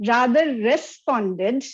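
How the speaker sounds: responded said slowly and held, set apart after a pause; stress on responded. Shown as a demonstration. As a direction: lean on responded and let it land. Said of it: "I stress on the word responded".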